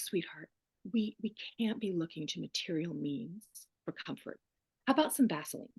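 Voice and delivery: mock syrupy practitioner. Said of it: "she goes".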